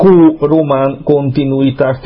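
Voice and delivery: "dákó" with a drawn-out long ó. Real, not acted. Radio host stressing his deliberate wording, long ó in "dákó". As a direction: stretch the final ó of "dákó" slowly. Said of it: "nem véletlenül mondom hosszú óval".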